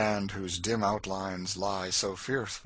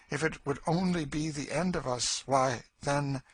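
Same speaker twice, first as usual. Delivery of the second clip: raised, bitter voice trailing away; brooding Cassie; 7 semitones higher, 4 dB louder than usual. Acted. Woman weighs death against their life, bitter and brooding. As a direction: argue it out, then leave it hanging.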